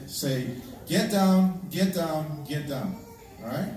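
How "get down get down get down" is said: firm commands that trail off; demo yell, fading. Shown as a demonstration. Pastor showing the congregation the team's call, a yell fading. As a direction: show the team's shout, then let it drop. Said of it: "voices that are gonna say".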